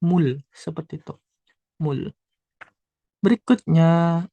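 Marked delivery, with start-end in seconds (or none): 0.0-0.4 "mul" ending in an L sound; final L in mul. Shown as a demonstration. Teacher showing learners the final consonant, mul with clear L. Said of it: "Real di akhir dibaca L".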